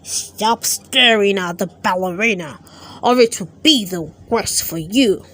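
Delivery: a hint of a bad-tempered goblin warning; mild mock snarl from a cranky goblin. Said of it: "he snarled".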